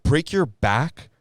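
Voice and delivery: sarcastic echo, mocking his complaint; incredulous mock repeat. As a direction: stretch it out like you can't believe he said it. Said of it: "And I'm like".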